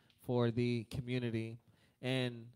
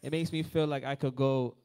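calling out; 6 dB louder than usual. Real, not acted. Calling out to congregation.

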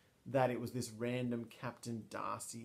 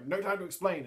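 retold urgency; 6 semitones higher, 5 dB louder, faster than usual. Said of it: "he's just been like".

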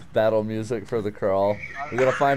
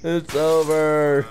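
overacted death scene; 2 semitones higher, 4 dB louder, much slower than usual. Slow dramatic repeat.

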